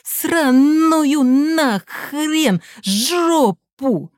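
очень медленно, высоко, громко; выплюни каждое слово; ярость. Acted. Сын в ярости уходит. (сын в ярости орёт из коридора, очень медленно)

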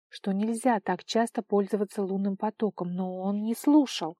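usual speaking voice

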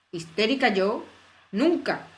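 más fuerte, negándolo con furia; la reina ruge ofendida; rugido indignado. Acted. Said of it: "rugió la reina". (la reina ruge su negativa, más fuerte)

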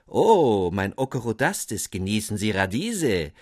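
loud greeting call, bursting in on the first word. Acted. Dapsul calls out to Corduanspitz at the table, loud. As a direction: greet him heartily across the room. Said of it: "so rief ihm Herr Dapsul".

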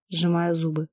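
ordinary delivery, nothing marked

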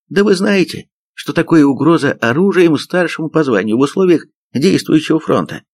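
high-pitched indignant rebuke; pompous outrage. A narrator's reading. Major rebukes sergeant aiming at him, outraged. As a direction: rebuke from a puffed-up chest.

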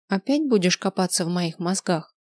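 usual speaking voice

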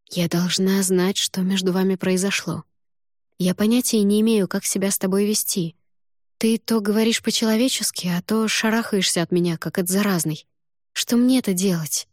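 lightly voiced heroine, exasperated; heroine's anxious plea. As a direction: plead for clarity, getting worked up. Heroine pleads with Algidras.

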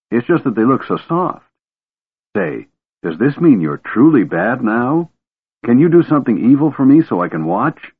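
put-on light, high, eager young voice; a curious Kender begging to see magic. Kender Tass chatters excitedly.

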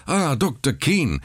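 high excited call, a different voice; eager call. Acted. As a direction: hail him eagerly. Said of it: "rief er".

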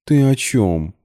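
high, innocent question; feigned innocence. A narrator's reading. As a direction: play dumb sweetly. (невинно, высоко)

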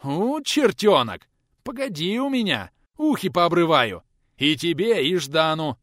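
loud, high angry threat; old teacher threatening the boys, loud and furious; growled threat. Acted. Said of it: "зарычал трудовик".

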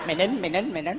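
low, insistent telling-off; curt hushing. Acted. Insulted candidate silencing father and son, low curt hushing. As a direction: shut them up with low, quick repeats.

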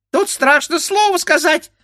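very high squeak; squeaky beak. A narrator's reading. The bird beak mimicking the grandfather, squeaking. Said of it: "пискнул птичий нос".

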